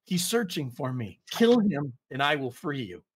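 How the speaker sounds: put-on crying child's plea. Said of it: "It's crying... it screams out".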